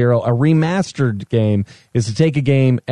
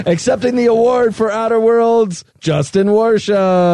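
higher formal gala intro; awards announcer; 8 semitones higher than usual. Pretend. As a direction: present the winner grandly.

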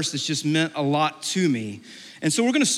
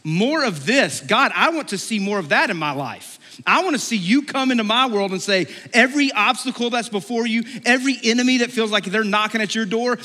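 high, fervent wishing; eager plea; 6 semitones higher than usual. Retold or imitated. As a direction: beg enthusiastically for more. Imagined eager plea to God.

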